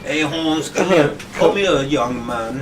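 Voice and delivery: lightly mocking valley-girl sister; slow down into a teasing valley-girl summons. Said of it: "like a valley girl?".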